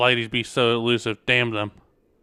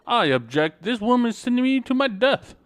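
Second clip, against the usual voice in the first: indignant protest; 10 semitones higher, 3 dB louder than usual. Acted.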